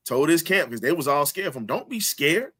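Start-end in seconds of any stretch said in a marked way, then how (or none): 1.7-2.5 imitating Ali, pitched higher and building louder; retelling Ali. Host voicing Ali telling his scared camp, lightly mock-boastful. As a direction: channel Ali's cocky pep talk, rising to a shout. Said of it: "Ali said".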